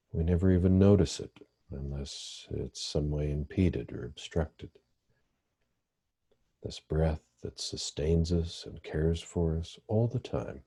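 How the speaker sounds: calm, measured meditation guidance with long pauses; guided meditation. Real, not acted. Therapist leading listeners through breathing meditation, calm guided meditation. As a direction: guide listeners gently into the breath, leaving space between phrases.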